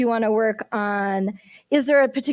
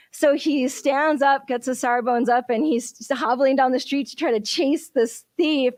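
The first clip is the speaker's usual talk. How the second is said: ordinary talk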